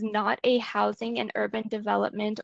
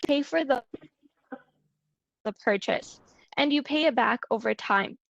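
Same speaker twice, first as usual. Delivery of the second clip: choppy, dropping internet audio; corrupted glitchy audio. Real, not acted. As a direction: sound cutting in and out. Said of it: "your sound keeps cutting out".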